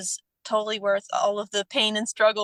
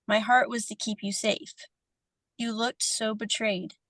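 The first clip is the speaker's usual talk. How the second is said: heartfelt letter reading. Real, not acted. Reads apology letter aloud.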